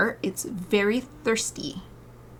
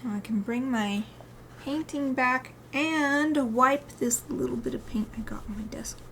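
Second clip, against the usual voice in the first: whispering; 4 semitones higher than usual. Real, not acted. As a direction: whisper it to yourself. Whispered aside while wiping desk.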